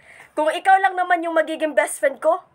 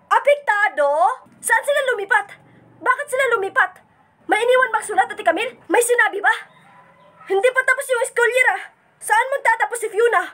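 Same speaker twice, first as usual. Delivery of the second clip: higher, urgent rush of questions; anxious questions; 5 semitones higher than usual. Acted. Frantic as he learns his friend moved. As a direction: fire off worried questions. Upset that Fiona moved away.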